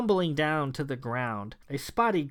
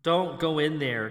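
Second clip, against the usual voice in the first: cried out. Acted. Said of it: "King cried".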